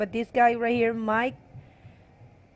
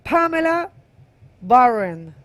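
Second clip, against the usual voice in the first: hyped name call; 5 semitones higher, 8 dB louder than usual. Real, not acted. Announcing the heat winner.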